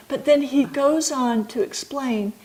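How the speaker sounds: ordinary talk, nothing marked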